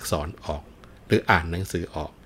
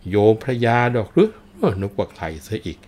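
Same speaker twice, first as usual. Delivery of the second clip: surprised monk; 3 semitones higher, 7 dB louder than usual. Acted. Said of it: "บอก".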